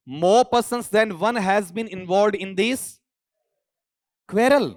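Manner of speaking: slow, deliberate English reading; careful reading. Shown as a demonstration. Teacher reading the exam sentence slowly to students. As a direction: read the sentence slowly word by word. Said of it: "क्या उच्चारण किया".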